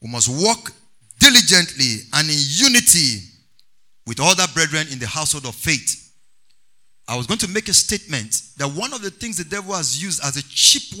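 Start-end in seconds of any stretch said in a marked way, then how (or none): 0.0-6.1 measured phrases with pauses between; deliberate dictation, phrase by phrase; dictating for note-takers. Real, not acted. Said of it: "let me repeat it one more time for those who are writing".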